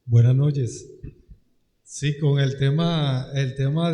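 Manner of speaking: echoing mic; microphone echo. Real, not acted. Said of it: "hay un eco aquí terrible". (voz con eco de micrófono)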